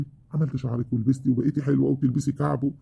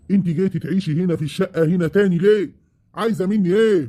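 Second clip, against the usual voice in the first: angry demand; 4 semitones higher, 3 dB louder than usual. Acted. Husband confronting ex-wife.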